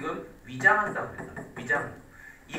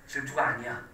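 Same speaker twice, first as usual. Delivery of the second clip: acted denial; 5 semitones lower than usual. Shown as a demonstration. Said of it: "이렇게".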